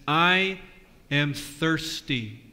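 a hint of Jesus on the cross, slow and drawn out. Pastor voicing Jesus on the cross to the kids, slow. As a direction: draw the words out like a dying man. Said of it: "today he says".

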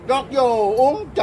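excited shout. Real, not acted. Forcing drink into animal's mouth.

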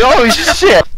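high, drawn-out dismay; shocked exclamation. Retold or imitated. Driver watching the animal hit the car, shocked. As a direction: blurt it out in comic horror.

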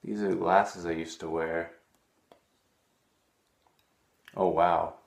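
loud, hammed-up discovery; surprised. Vlogger finding his old glasses on camera, mock amazed.

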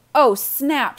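loud, high startled cry; excited shout; shouted exclamation. A narrator's reading. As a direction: call it out in sudden realization. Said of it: "shouted Evan".

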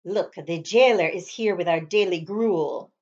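plain reading voice

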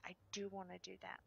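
quick soft whisper. Real, not acted. Player whispering to viewers, soft and fast.

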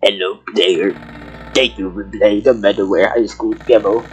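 low, even read-out; subdued low recital of a letter; reading a note aloud. Acted. Reads the creator's note aloud.

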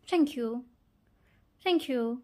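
clipped British thank you, mouth nearly shut. Shown as a demonstration. Mimicking how Brits say thank you, clipped and quick. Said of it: "ওরা বলে".

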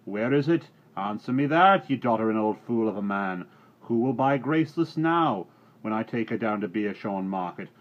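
loud, high furious farmer; angry shout. Acted. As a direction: berate the old fool at full voice. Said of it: "shouted another voice".

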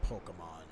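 "Pokemon" with a relaxed uh in the middle, POH-kuh-mon; supposed pronunciation. Shown as a demonstration. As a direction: say "Pokemon" the proper way, middle vowel reduced to uh. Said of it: "is how it's supposed to be pronounced".

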